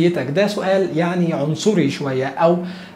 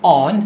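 on said louder and set apart; stress on on; 2 semitones lower, 4 dB louder than usual. Shown as a demonstration. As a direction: lean on the word on. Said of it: "إن إحنا بنقول".

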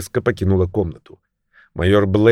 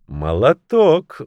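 gently; 6 semitones higher, 4 dB louder, much slower than usual. A narrator's reading. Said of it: "ласково ответила".

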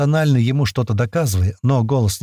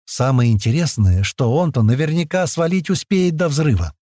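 ordinary delivery

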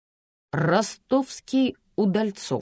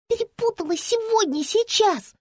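put-on anxious little girl. Girl begging Lampa to hurry with a high urgent child's voice. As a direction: sound like a scared little girl left alone.

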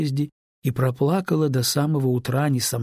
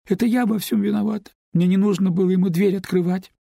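put-on higher girl's voice, rising as she pleads; young neighbour pleading with Lyuba, higher voice; tearful girl pleading; 7 semitones higher, 3 dB louder than usual. A narrator's reading. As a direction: beg forgiveness, voice climbing. Larisa blames herself.

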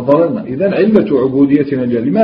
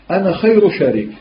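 mocking irony; 5 semitones higher than usual. Shown as a demonstration. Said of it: "ماشي كما الأول في الترهيب".

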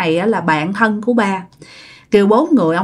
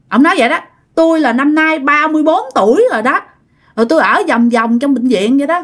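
a higher, lightly acted spirit telling his story; lightly voiced ghost; 4 semitones higher than usual. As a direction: voice the lonely ghost, a bit higher. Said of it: "Ông này nói vậy đó". (giọng hồn ma kể chuyện, hơi cao)

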